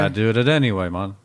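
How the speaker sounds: put-on half-hearted Irish accent with a Jamaican lilt; bad Irish accent, slightly Jamaican. Podcast host jokes after an Irish listener's voicemail, bad Irish accent. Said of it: "with a little Jamaican in there".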